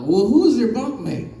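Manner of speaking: mock sergeant shout. Sergeant demanding.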